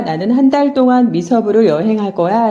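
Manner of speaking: 나는 한 달 동안 미서부를 여행할 거야 with every syllable the same length; 나는 한 달 동안 미서부를 여행할 거야, one beat per syllable; even syllable timing. Shown as a demonstration. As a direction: tap out each syllable evenly. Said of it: "훨씬 더 많이 시간이 걸리게".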